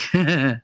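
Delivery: short imitated evil chuckle; evil little laugh. Mother imitating her mischievous son, evil little laugh. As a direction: mimic a little villain's snicker. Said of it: "he had that evil little".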